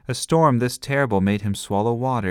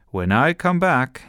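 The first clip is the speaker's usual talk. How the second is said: a touch of stern father, louder; stern dad warning; 6 semitones higher, 6 dB louder than usual. A narrator's reading. Dad warns children before leaving the bathroom. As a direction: warn the kids firmly. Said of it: "a stern warning".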